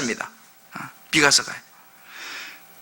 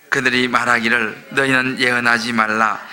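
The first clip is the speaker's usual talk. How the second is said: scripture reading; 10 semitones lower than usual. Acted. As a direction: read the verse together, measured. Congregation reads scripture aloud.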